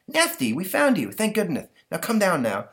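put-on high boy voice calling up. Stanley calling Nasty down from the tree, high and coaxing. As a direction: coax a kid down from a tree.

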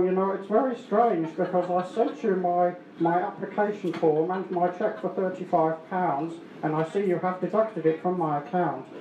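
nasal, whiny complaining customer. Retold or imitated. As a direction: complain through the nose. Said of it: "with the nasal voices".

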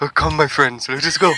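put-on hammy old puppet master calling out; Toulon voice. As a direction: ham up a campy old puppet master rallying his friends. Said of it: "read ... in Toulon's voice".

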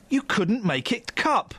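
slow, deliberate words rising on cup; drawn-out mock-tabloid slogan; slow catchphrase. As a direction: spell it out slowly, lifting the end. Repeated catchphrase, deliberately slowed.

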